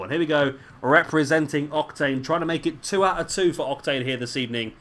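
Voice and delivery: lightly hammed-up ring announcer intro; understated announcer build-up. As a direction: present the wrestler like an arena announcer.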